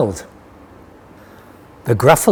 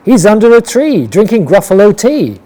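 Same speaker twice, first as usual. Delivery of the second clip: higher, louder sly fox voice; a crafty fox sending her off; 5 semitones higher, 3 dB louder than usual. Acted. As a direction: fox tricking the Gruffalo's child, sly and bright. Fox points child away.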